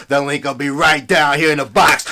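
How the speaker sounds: wrestling promo. Acted. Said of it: "my wrestling voice".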